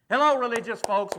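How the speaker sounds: loud jab at the congregation; wake-up call. Real, not acted. Pastor rousing sleepy churchgoers, loud call. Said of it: "Wake up here this morning".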